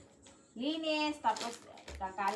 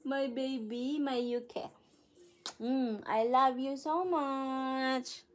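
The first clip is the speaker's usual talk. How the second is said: slow, tender cooing; drawn-out loving coo; 2 semitones higher, slower than usual. Real, not acted. Mother cooing to her baby.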